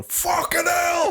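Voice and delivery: high, slow, loud shocked cry; shocked yell. Retold or imitated. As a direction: yell it out in outrage. Neighbour yelling at sparkling water.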